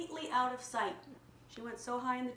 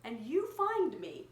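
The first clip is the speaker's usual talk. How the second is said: playful caterpillar; 2 semitones higher, 5 dB louder, much slower than usual. Acted. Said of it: "she said".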